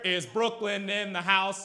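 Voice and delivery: lightly voiced anemic vegan hype call. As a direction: imitate a vegan trying a slow hype call. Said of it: "it's just an anemic vegan with a V-neck".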